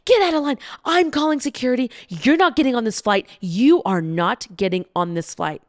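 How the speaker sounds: imitating an angry agent. Gate agent kicking the couple out of line, mock angry shout. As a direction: play the gate agent throwing them out. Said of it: "He's like".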